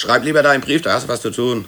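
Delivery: angry retort. Acted. Quarrel, snapping back at colleague.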